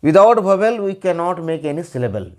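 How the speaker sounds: very slow, every word separate; slow dictation. Shown as a demonstration. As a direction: spell out the rule slowly. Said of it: "minimum एक ठो vowel का". (धीरे धीरे नियम बोलना)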